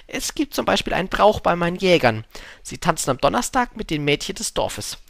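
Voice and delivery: lightly voiced lively storybook fox; fox, keenly explaining.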